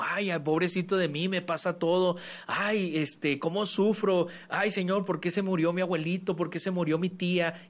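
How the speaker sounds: hammed-up poor-me moaning; self-pitying victim. Mocking someone who feels like a victim, whiny. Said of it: "uno pensaría sentirse como víctima".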